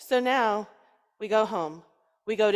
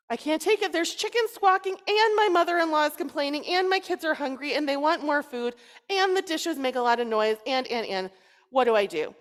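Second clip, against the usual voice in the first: exasperated plea; 4 semitones higher than usual. Acted. Man pleading with rabbi, overwhelmed and exasperated. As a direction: pile on the complaints breathlessly.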